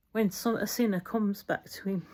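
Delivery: choked up, words unsteady; wobbly voice. Real, not acted. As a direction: voice starting to wobble. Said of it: "my wobbly voice".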